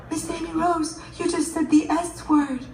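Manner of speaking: put-on little girl's accusation. Little girl accusing teacher.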